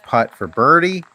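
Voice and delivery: rising play-by-play call; excited golf commentator. Real, not acted. Calling a made birdie putt.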